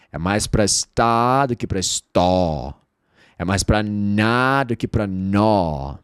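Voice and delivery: stó said as está, nó as na, slow; vowel contrast. Shown as a demonstration. Teacher comparing vowels, slowly. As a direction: stretch the open ah. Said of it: "em palavras menores o O ter som de A".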